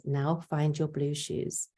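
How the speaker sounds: one gentle step at a time; calm and simple. Shown as a demonstration. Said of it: "tell them calmly and simply".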